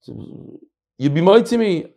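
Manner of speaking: mock mumbled blessing. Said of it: "my father runs over to the Chazan".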